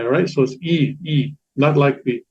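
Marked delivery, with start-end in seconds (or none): 0.6-1.3 E as a long Italian I; Italian I sound. Shown as a demonstration. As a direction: say E like Italian I, not short I. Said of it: "like an Italian I".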